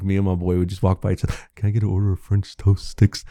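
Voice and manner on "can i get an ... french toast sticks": mocking customer. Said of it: "we were being assholes".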